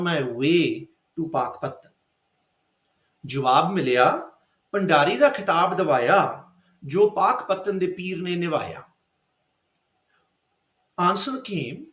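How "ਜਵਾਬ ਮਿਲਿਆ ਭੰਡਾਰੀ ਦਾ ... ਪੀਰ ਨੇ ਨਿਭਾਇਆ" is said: poem recital. Shown as a demonstration. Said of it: "I speak the original".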